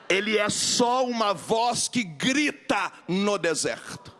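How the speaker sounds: slow, weighty sermon delivery; solemn slow preaching. Acted. Preacher to congregation, slow solemn proclamation. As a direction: draw each phrase out for the congregation.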